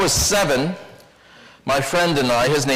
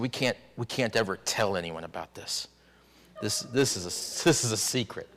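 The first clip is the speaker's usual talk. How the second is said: dropped to a near whisper, softer; hushed secret pact; 6 semitones lower, 9 dB quieter than usual. Retold or imitated. Boys whispering to each other behind houses, sworn to secrecy, hushed. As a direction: hush it like two scared boys swearing secrecy.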